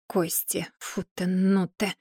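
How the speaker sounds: quiet, slow grumble under the breath; muttered. A narrator's reading. Old witch grumbling over her tea, a quiet mutter. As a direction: mutter it half to yourself. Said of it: "пробормотала Яга".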